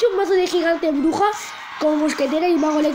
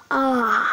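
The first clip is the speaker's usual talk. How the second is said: drawn-out, low open "ah"; stunned "ah"; 5 semitones lower than usual. Shown as a demonstration. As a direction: let out a long, dazed "aah". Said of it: "estoy en plan".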